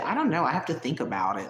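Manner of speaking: put-on light, prim Hillary Banks type accent; hint of a spoiled Bel-Air girl accent. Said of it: "that little Hillary Banks type accent".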